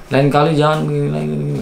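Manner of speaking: high, fast fussy warning; mock boss warning. Boss warning the employee not to repeat it, high fast mock warning. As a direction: brush it off like a lecturing boss.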